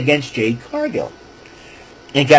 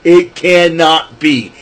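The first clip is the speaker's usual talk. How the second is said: stunned disbelief; 4 dB louder, much slower than usual. Real, not acted. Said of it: "When I heard that theme song".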